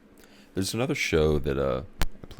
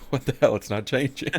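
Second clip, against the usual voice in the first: a lightly voiced grumbling old man, louder; a hint of a cranky grandpa; impatient grandpa; 9 semitones higher, 7 dB louder than usual. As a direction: complain at the screen impatiently.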